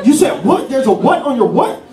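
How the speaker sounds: baffled imitated sergeant; incredulous sergeant. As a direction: question it in acted astonishment. Sergeant's disbelief acted out.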